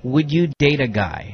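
hushed and slow, for suspense; dramatic whisper. Acted. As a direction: whisper the question like a big reveal. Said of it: "I'm trying to make it dramatic".

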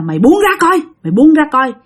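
lightly voiced exorcist; stern shaman. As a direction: order the spirit off. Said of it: "Ổng mới nói rằng á là".

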